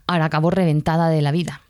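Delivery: a whispered, worn-out aside. Real, not acted. Teacher confiding her exhaustion to listeners, whispered. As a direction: let it slip out in a whisper, confiding.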